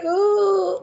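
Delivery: high startled gasp. Pretend. Startled reaction.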